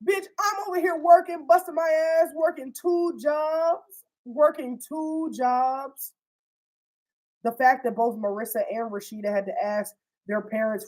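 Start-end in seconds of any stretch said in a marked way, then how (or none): 0.0-6.1 retold tirade. Rashida laying into Dre about her two jobs, higher retold tirade. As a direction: drag out working two jobs. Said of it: "she was laying into her like".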